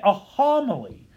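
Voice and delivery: deliberate weight on "homily"; stress on HOMILY. Shown as a demonstration. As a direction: put the emphasis on the word "homily". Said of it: "emphasis on the word homily".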